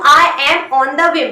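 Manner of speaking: very slow, word by word teacher model; slow model phrase. Shown as a demonstration. Teacher spelling out a question for Hindi learners, very slow. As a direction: stretch every word so learners can follow. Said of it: "मैं क्या बोली हूँ".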